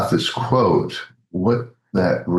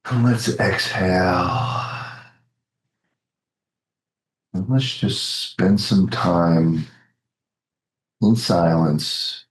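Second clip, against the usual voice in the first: calm, unhurried meditation lead with long pauses; guided meditation. Real, not acted. Practitioner guiding the group into silent contemplation, calm and spacious.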